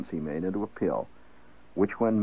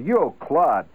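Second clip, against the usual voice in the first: a raised street call, louder; mock holler; 5 semitones higher, 4 dB louder than usual. Shown as a demonstration. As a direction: call across the street at someone. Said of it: "somebody hollers at you".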